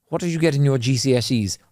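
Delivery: lightly put-on posh accent. Posh person asks about your exam results, in a posh accent. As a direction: ask it in a middle-class posh accent. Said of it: "Just said it in that posh accent".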